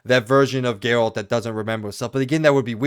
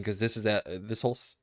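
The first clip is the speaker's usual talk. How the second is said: speaking through hiccups; 8 dB quieter than usual. Real, not acted. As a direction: hiccup between words. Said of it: "I'm hiccuping like crazy".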